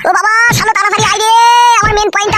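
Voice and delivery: hammed-up wailing sob; pained crying. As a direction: cry out for help through the pain. Crying out after injury.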